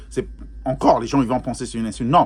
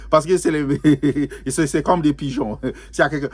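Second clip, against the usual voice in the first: halting, amused, broken by chuckles; laughing. Real, not acted. Laughing at own pigeon comparison, amused and chuckling. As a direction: chuckle between the words.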